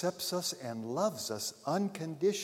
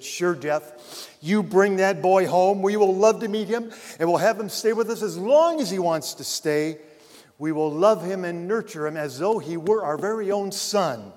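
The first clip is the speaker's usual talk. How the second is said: a mother's warm, louder welcome; motherly compassion; 5 semitones higher, 7 dB louder than usual. A narrator's reading. Mother on the phone welcoming her son's friend, warmly. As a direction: open her home gladly, with feeling. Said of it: "Her motherly compassion welled up within her".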